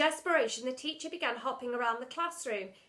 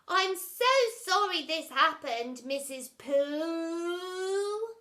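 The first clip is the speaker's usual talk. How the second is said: fake sincerity; 7 semitones higher, 8 dB louder, much slower than usual. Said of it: "appear even more sincere than he sounded".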